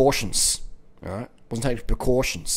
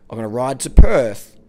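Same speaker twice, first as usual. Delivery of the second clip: loud resolve; 10 dB louder than usual. Real, not acted. Commitment restated.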